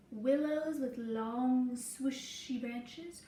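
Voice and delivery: gentle storybook read-aloud for a class; reading to children. Acted. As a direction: tell the story slowly to little listeners. Reading picture book to class.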